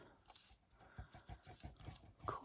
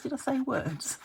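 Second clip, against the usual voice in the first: laughing; 3 semitones higher, 5 dB louder than usual. Real, not acted. Laughing self-correction.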